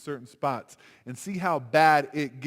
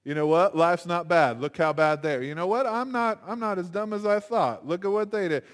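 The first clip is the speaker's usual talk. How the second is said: puffed up with pride; 3 semitones higher, 4 dB louder than usual. Retold or imitated. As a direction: gloat like you're better than them. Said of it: "puff yourself up with pride and go".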